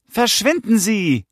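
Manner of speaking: high, slow, drawn-out shouted order; loud. A narrator's reading. Son to the stranger in their garden, loud order. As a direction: call it out high and loud, stretching the words. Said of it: "sagte Philipp laut".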